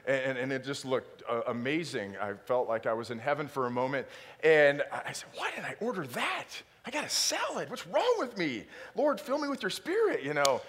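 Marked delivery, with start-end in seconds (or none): 5.3-10.2 mock despair. Retold self-rebuke at menu.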